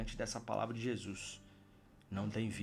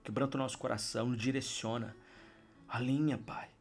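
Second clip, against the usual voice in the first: fervent prayer. Acted. Preacher closes the video leading everyone in prayer, fervent. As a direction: pray with the whole room, pressing in.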